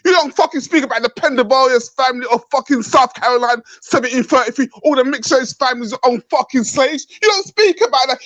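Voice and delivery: furious tirade; real angry rant, cursing; angry shouting. Real, not acted. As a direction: rant hard at them. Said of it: "you were swearing and shouting".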